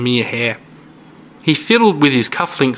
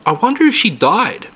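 musing aloud; 9 semitones higher than usual. Acted. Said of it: "he said out loud to no one in particular".

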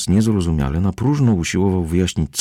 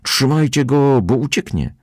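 shouting; 8 semitones higher than usual. A narrator's reading. Crowd shouting to hold him.

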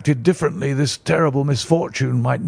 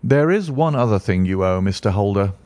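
rather sternly; 5 semitones lower than usual. Acted. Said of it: "said Sherlock Holmes rather sternly".

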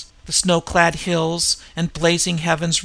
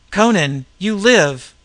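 louder and higher, glad surprise; relieved joyful shout; 3 semitones higher, 6 dB louder than usual. Acted. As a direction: greet a friend you thought was dead. Warrior finds Conan alive.

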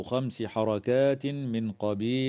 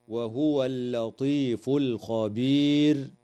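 Quranic recitation. Shown as a demonstration. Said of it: "قوله تعالى".

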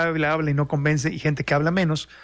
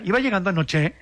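"Iba llegando anoche" lifted like a question; statement with an unsure rise; question intonation; 3 semitones higher than usual. Shown as a demonstration. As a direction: end "anoche" with a rising tune. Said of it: "te lo hacen como pregunta".

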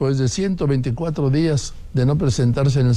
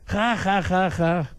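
mocking laugh; 6 semitones higher, 4 dB quieter, slower than usual. Real, not acted.

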